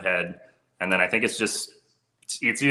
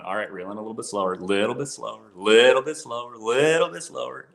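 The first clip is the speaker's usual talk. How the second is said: imitated guide's coaching; 3 semitones higher than usual. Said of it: "half of guiding is you turning around going".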